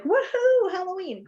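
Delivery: put-on high, loud whoop like a big kid; loud excited cheer. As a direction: cheer for the Halloween decorations, pitch way up. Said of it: "quite loudly".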